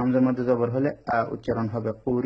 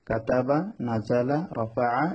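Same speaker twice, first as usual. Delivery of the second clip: short quick vowels; much slower than usual. Shown as a demonstration. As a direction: read each word with short, unstretched vowels. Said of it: "হরকত তাড়াতাড়ি পড়তে হয়". (টান ছাড়া, তাড়াতাড়ি হরকত পড়া)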